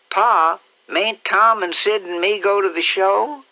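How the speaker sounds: put-on high, loud childish plea; little boy asking father at supper; begging little boy. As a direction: wheedle like a small child.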